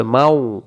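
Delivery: মাও ending through the gap between both lips; rounded lip gap. Shown as a demonstration. Teacher showing the articulation point, মাও ending on rounded lips. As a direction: round both lips to close মাও, leaving them open. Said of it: "দুই ঠোঁটের মাঝখানের ফাঁকা থেকে পড়তে হবে".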